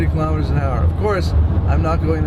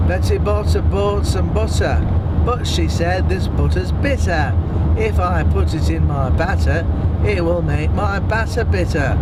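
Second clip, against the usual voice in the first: put-on a light northern English accent, vowels rounded. Driver doing his mother's northern English accent, lightly. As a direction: say it like his mum from the north of England. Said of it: "the northern accent, which is where my mom came from".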